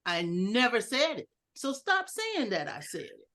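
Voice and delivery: "said" weighted, falling; stress on said. Shown as a demonstration. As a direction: lean on "said". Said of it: "can we see the difference in that".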